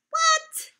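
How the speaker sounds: high laughing squeal of disbelief; laughing mock shock. Teacher laughing at her own silly song, high loud what.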